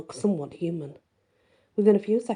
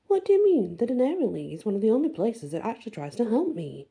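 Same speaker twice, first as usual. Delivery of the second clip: put-on lightly higher, questioning girl's voice; a hint of Briar Rose, hurt and confused; puzzled young woman; 5 semitones higher, faster than usual.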